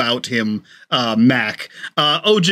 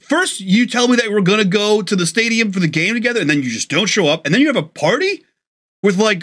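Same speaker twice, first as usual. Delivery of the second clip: indignant, hurt complaint; 4 semitones higher than usual. Acted. Friend acts hurt over missed party.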